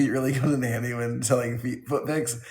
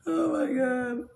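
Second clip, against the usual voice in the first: laughing disbelief; 13 semitones higher, slower than usual. Real, not acted. Reacting to chat, laughing.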